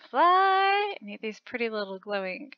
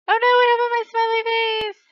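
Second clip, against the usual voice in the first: alarmed surprise; 8 semitones higher, 7 dB louder than usual. Real, not acted.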